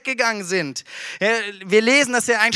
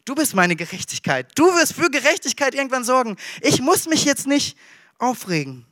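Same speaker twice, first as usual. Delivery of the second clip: calm inner prayer. Acted. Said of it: "innerlich denken so".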